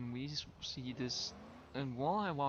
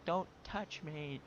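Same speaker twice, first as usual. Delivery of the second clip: slow, higher retold cry, held back; mild mock scream; 4 semitones higher, slower than usual. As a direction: imitate her scream without full volume. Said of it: "like, screaming".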